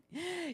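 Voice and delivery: high indignant gasp; sharp intake of offended breath; mock gasp. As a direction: gasp in exaggerated protest. Mock outraged partner protesting.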